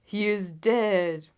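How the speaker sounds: loud, slow cry from the crowd; cried out. A narrator's reading. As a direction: call it out slowly, heavy on dead. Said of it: "cried several voices".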